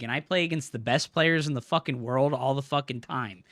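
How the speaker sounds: usual speaking voice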